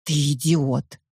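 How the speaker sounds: low muffled mumble. A narrator's reading. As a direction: mumble through a hand. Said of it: "бубнит под моей ладонью".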